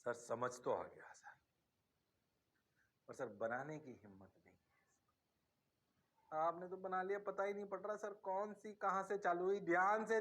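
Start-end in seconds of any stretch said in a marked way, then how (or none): 0.0-6.4 whispered then hushed, lower student voice; student admitting to the teacher he dares not draw it, whispered; timid student. Pretend. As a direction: play the scared student who can't draw it.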